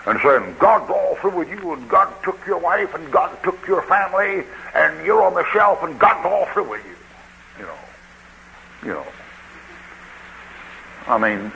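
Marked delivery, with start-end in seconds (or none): 0.6-7.0 mock screaming tirade. Deacon's wife condemning the preacher to his face, mock screaming. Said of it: "she was screaming and roaring".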